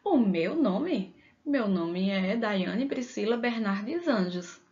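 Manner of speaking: slow "O meu nome?" echoed back, then the full name given; answering a familiar person, drawn out. Shown as a demonstration. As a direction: repeat the question slowly before giving your name. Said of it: "Se for alguém que já conheça".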